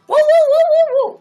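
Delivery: string of high, loud whoops; excited high "woo-woo" cheer; loud celebratory whooping. Real, not acted. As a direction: whoop wildly for a gift. Cheering a viewer's gift.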